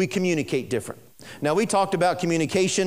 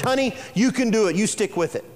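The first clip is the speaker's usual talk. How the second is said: mock encouraging wife; 3 semitones higher than usual.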